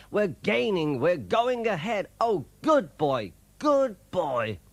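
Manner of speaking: high, excited cheering; excited shout. A narrator's reading. Driver cheers Percy going ahead, high excited shout. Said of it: "he shouted".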